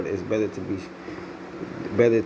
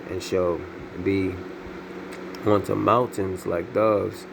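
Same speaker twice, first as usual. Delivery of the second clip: slow, measured reading of verse; scripture reading. Acted. Preacher reading Ezekiel to his listeners, slow and solemn. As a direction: read it out solemnly, word by word.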